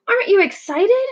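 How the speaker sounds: a hint of a cheerful penguin dad; bright, eager proud father; lightly voiced Papa penguin. Papa penguin greeting his chick on her big day.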